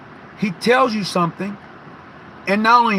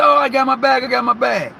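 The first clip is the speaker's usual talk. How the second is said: relieved; 5 semitones higher, 3 dB louder than usual. Retold or imitated. Relieved at finding bag.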